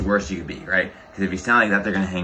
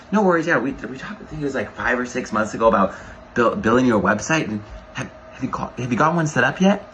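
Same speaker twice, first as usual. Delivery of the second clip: curious and confident; 3 semitones higher than usual. Shown as a demonstration. Coach showing a trainee how to sound curious, upbeat. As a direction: sound genuinely curious and sure. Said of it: "you sound, like, really curious".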